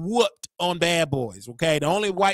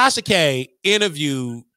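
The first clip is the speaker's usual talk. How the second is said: laughing; 6 dB louder than usual. Real, not acted. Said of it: "Let me say the story without laughing".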